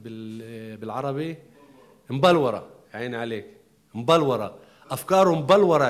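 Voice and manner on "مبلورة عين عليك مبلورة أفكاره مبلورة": مبلورة punched louder, with a falling tune; stressed key word. Shown as a demonstration. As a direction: hammer the word مبلورة home. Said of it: "شو يعني مبلورة؟".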